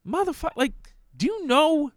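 high, exasperated tirade at the senator; worked up. Real, not acted. Worked up at the senator for sounding dumb, exasperated. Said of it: "I'm sorry I'm getting worked up".

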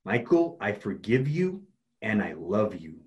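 slow, deliberate affirmation; with conviction. Shown as a demonstration. Coach models self-forgiveness for client, slow and convinced. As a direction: say it slowly and mean it. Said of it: "Now say it with conviction".

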